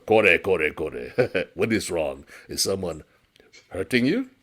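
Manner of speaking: steady and calm against the panic; calm noodle seller. Acted. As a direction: noodle seller calmly asking what is wrong.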